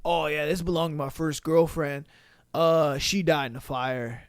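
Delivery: low, dopey mock voice; goofy guy. Comedian mocking the clueless boyfriend, dopey low voice. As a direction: play him clueless and dopey. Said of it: "this goofy motherfucker said".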